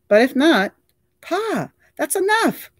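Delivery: high, loud exasperated scold. A narrator's reading. Son sharply scolding his father to stop. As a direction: cut him off sharply.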